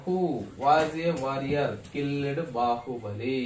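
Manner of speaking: teacher dictating softly; slow demo. Shown as a demonstration. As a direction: read the rest slowly, trailing down. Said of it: "ఇక్కడ చూడండి ఒకసారి".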